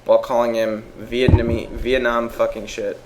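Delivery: measured read-out of a written report; reading aloud. Real, not acted. Reading friends an article on an actor's crimes, matter-of-fact. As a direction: read the case facts out clearly, evenly.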